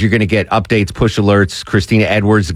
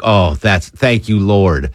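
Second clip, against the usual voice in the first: slow, drawn-out mock prayer of relief; mock-grateful staffer easing into relief; slow relieved thanks; slower than usual. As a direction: thank the Lord slowly, like a weight is lifted.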